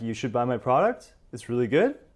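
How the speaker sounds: unsure upward lilt ending on final good. Showing how uncertain speakers sound, rising tone at end on good. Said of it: "they happen to go up in their tone".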